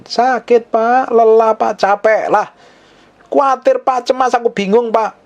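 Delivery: high, whining list of complaints to the pastor; high mock-whiny complaint; whiny complaining congregant. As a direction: play a worn-out believer moaning to the pastor. Acting a tired congregant complaining.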